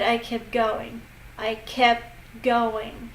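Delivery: "kept" runs into "going", its T left silent; dropped T. Shown as a demonstration. Teacher showing learners how natives link "kept going", T dropped. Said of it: "they just don't say the T".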